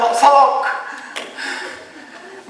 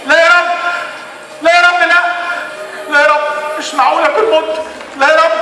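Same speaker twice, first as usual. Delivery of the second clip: panicked; 4 semitones higher than usual. Acted. Waking in darkness, panicking.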